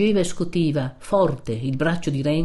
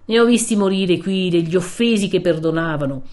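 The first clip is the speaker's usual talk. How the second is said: severe friar; 3 semitones higher, 3 dB louder than usual. Acted. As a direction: rebuke him with mounting severity. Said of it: "con una voce non meno severa". (frate severo, voce alta e dura)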